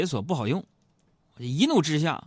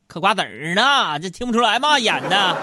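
mock exasperated; 5 semitones higher, 5 dB louder than usual. Mock-angry reply to wife.

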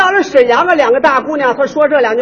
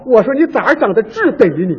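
put-on Tangshan accent; 3 semitones lower than usual. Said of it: "唐山是这样说".

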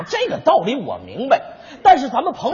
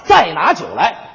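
Wu Song calling; 3 semitones lower than usual. Acted. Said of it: "边吃牛肉边说道".

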